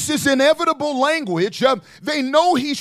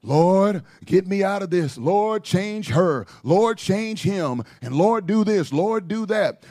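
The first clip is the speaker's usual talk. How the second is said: mock pleading prayer; 5 semitones lower than usual. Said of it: "if that's all you pray".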